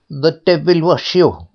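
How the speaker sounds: put-on high, rude spiteful girl; spiteful retort. A narrator's reading. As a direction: snap back at the head with scorn. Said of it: "said the stepdaughter".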